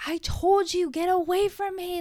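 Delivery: high, loud, harsh retort; mock aggressive yell. Wife yelling at husband in the car, loud mock yell. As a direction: snap back like she's attacking. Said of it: "And I'm like".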